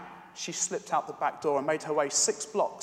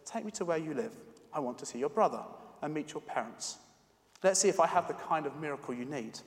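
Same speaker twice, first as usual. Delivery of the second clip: gentle reassurance. Acted. Doctor gently reassuring the girl.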